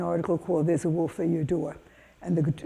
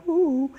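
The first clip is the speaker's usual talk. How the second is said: high-pitched little ooh; awed "ooh"; 8 semitones higher than usual. Retold or imitated. Kids behind their teacher at big holes, imitated awe.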